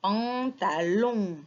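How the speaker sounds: put-on "Pantalon" drawn out for children to hear each sound; syllable by syllable. Shown as a demonstration. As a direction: stretch "Pantalon" into slow syllables.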